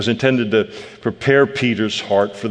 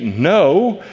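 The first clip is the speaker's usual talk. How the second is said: flat refusal; 6 semitones higher than usual. Shown as a demonstration. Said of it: "or you can say".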